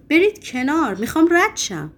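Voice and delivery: shouting. A narrator's reading. Patient orders nurses blocking the door, shouting. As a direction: order them aside loudly. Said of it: "فریاد زد".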